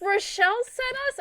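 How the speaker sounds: imitating unsure visitors. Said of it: "they're like".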